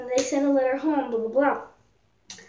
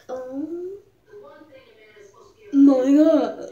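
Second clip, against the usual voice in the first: louder, with a sob; crying out; 6 dB louder, much slower than usual. Retold or imitated. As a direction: break into a cry on God. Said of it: "she was like".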